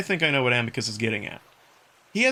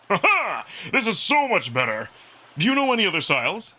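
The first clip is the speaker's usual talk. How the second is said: Amicus the wolf, delighted, louder and faster; excited wolf Amicus; 7 semitones higher, 4 dB louder than usual. Acted. Wolf Amicus thrilled after learning freestyle, excited role voice. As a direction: whoop it out, thrilled with the new stroke.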